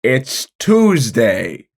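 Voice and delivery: slow, drawn-out morning musing; weary monologue. Acted. MacArthur facing the blob, slow and weary. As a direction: savor the dull Tuesday. Character's deadpan Twin Peaks monologue.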